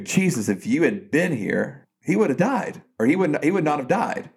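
upset sister's complaint, pitch swooping up; upset reproach. Retold or imitated. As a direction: imitate an upset woman's reproach, voice lifted. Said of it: "Martha is so upset".

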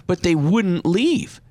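high, plaintive imitation of an upset client; retold tearful protest. Client explains to her adviser on the phone, mock tearful. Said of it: "just crying on the phone".

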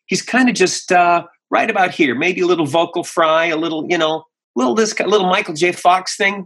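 a lightly voiced teen hero with a little vocal fry, fast at the end; a hint of Michael J. Fox, just above his own voice; early Leo voice. Shown as a demonstration. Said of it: "I kinda just do it like this".

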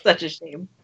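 breathy whispered tease. Real, not acted. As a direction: whisper it with mock regret. Teasing about pretty face.

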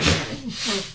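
real, sudden sneeze. Real, not acted. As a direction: gnarly sneeze. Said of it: "It's a pretty gnarly sneeze".

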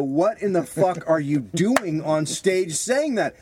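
laughing, rising to a high shout; incredulous shouted rant, cracking up; mock outraged yell. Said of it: "And I used to every time go".

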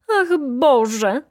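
the baroness shrieks "Ach, Boże!" as she staggers; crying out. A narrator's reading. The baroness cries out again to the judge, loud and high. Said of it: "krzyknęła znowu baronowa".

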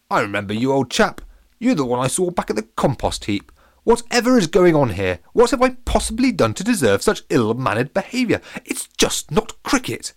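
high loud posh outrage; indignant, rising high; offended posh captain. Acted. Captain scolds lemon from the hole.

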